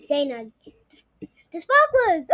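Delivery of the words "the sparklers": high, loud cry of delight; excited gasp. Acted. Child repeating her discovery, high and excited. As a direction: exclaim it wide-eyed. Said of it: "Zaina gasped".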